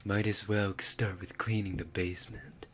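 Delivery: lightly voiced anime captain giving orders; deliberate, pausing anime character voice in English; Levi Ackerman. Streamer improvises the captain ordering a newcomer to clean, Levi Ackerman impression. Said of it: "but try it in English".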